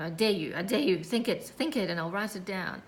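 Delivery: retold threat, pushed out firmly; threatening. Threatening her own negative thoughts with the pen, retold dare. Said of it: "threatening myself".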